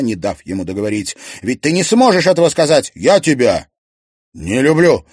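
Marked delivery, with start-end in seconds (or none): 1.4-2.9 loud challenge. Acted. Serafima challenges Klim. 2.9-5.1 slow. A narrator's reading. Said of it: "медленно проговорил Клим".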